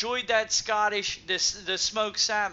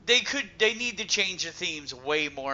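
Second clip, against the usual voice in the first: stammering, repeating words; tripping over repeated words; stuttering. Real, not acted. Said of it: "I know I'm stuttering".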